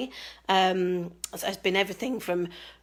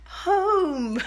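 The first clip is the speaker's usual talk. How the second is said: higher croaky echo of the word; hoarse cry; 7 semitones higher than usual. Real, not acted. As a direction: sing it out hoarse. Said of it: "as you can hear, I've half lost my voice".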